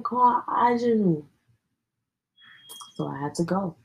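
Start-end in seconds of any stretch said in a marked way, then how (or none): 0.0-1.3 mom's command, pitched higher; imitating mom's order. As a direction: quote the mother ordering the punishment, raised pitch. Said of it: "She said".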